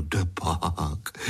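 mild low-key grumble; lightly grumbled brush-off. Acted. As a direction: grumble it dismissively. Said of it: "darmošlap zahučel".

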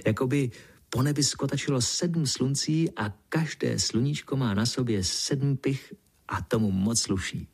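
plain reading voice

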